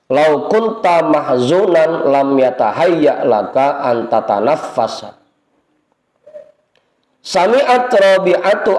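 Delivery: slow, measured Arabic reading; drawn-out reading of classical Arabic; kitab recitation. Acted. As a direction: intone the text like a kitab lesson. Reads Arabic kitab text aloud.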